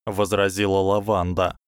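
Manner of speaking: plain reading voice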